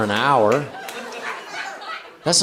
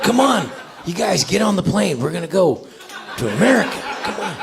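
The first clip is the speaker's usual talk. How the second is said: higher, hammed-up voice of Haitian migrants; mock Haitian voice; 5 semitones higher than usual. Comic coaxing friends onto a plane. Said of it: "they're like".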